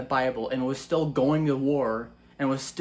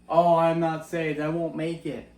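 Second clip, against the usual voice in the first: louder mock despair; 4 dB louder than usual. Mocking a believer who fears he isn't saved, in louder mock despair. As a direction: repeat it louder, hammed-up hopeless. Same words repeated louder.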